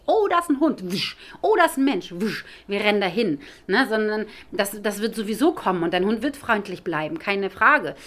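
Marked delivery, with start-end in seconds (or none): 0.1-3.4 excited dog. Acted. Trainer mimics a dog spotting someone, excited. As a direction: play an overexcited dog, darting off with a whoosh.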